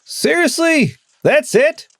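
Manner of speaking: can't believe that's the ending; incredulous. Real, not acted. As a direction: listener scoffing at the anticlimax in disbelief. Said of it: "That's lame".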